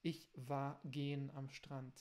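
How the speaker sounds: slow, wrong-tense German sentence; learner's wrong tense. Shown as a demonstration. German teacher demonstrating a learner's typical error, slow. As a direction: say it slowly, as a learner's mistake. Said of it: "Vocês precisam falar".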